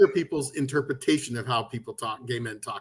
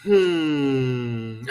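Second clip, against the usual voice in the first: put-on kids' knowing hmm; 3 semitones lower than usual. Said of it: "they'll be all".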